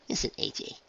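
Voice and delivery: soft unvoiced sigh; under the breath. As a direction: murmur it half to herself. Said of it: "sighed under breath".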